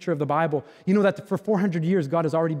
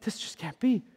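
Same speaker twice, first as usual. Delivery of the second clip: softer, almost to himself; quiet disbelief; 3 semitones higher, 7 dB quieter than usual. Pretend. Pastor echoing disbelief to himself, softly. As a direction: drop away into a murmur of doubt.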